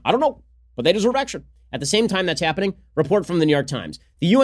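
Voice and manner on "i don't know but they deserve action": mock gushing politician. Mock answer to own question.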